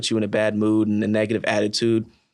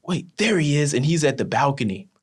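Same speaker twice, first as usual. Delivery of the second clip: retold surprise, pitched up; sudden spotting; 5 semitones higher than usual. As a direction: point someone out as if just spotted. Teammate suddenly spots Devin.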